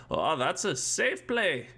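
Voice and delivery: put-on slow, stilted old-timey boy; hammed-up wholesome kid from old movies; fifties boy voice. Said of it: "That's not even a nineteen fifties voice".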